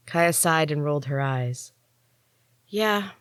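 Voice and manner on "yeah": begrudging. A narrator's reading. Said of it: "she said begrudgingly".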